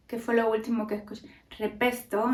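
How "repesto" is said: Andalusian accent. Shown as a demonstration. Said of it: "en lugar de".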